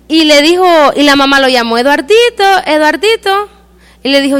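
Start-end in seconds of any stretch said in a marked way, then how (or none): 1.8-3.5 a mother calling twice for her son. Acted. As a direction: call him home from the sandbox. Mother calling him from afar.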